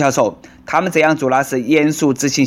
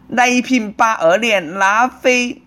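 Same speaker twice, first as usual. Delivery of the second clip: higher, slowly spaced syllables; slow repeating; 5 semitones higher, slower than usual. Acted. Customer entering the WiFi password, slowly repeating it. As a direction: repeat it piece by piece while typing.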